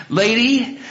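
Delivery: high, loud words broken by a laugh; laughing reassurance. Retold or imitated. Preacher reassuring the worried mother, laughing. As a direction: wave off her fear with a laugh.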